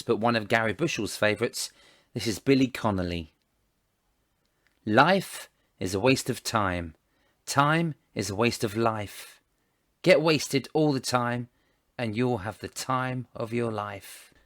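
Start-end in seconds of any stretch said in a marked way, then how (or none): 4.8-14.3 slow, weighty quote delivery; quote reading. Acted. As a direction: read it slowly like a famous line. Reading a favourite quote aloud.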